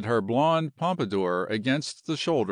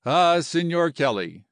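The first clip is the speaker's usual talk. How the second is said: heartfelt appeal, pitched up and louder; feeling and final; 4 semitones higher, 5 dB louder than usual. Acted. General makes his last word to Kelly, feelingly. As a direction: say it with mild earnest feeling. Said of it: "said the general feelingly and finally".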